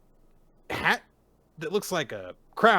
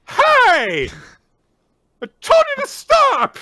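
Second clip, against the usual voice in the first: much higher, louder scolding yell; squeaky scolding yell; 11 dB louder, slower than usual. Retold or imitated. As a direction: scold her like a frazzled parent. Gakuro scolding Yozora.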